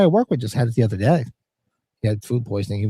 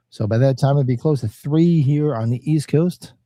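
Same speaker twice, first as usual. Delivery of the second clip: a hint of a late-night radio DJ; lightly voiced radio host, slowing down. Streamer trying out a DJ read for chat, mild radio voice. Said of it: "Sound like a D J".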